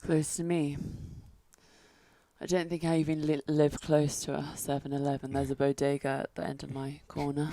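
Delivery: British accent. Shown as a demonstration. Woman answering a test question on request, soft British accent. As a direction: answer quietly in your old British. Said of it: "is your British gone?".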